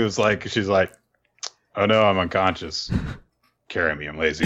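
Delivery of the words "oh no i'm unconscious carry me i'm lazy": mock feeble faking. Jokes as a girl faking unconsciousness.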